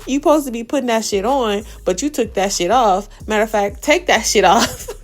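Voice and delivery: mock Lex diss. Lex mocking Legacy's outfit, loud shady jab. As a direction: throw shade, building to take that shit off. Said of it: "she's like".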